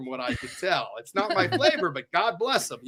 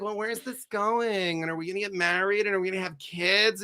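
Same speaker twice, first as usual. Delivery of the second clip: mimicking partner; 2 semitones higher, 4 dB quieter than usual. Friend mimics partner's pressure talk.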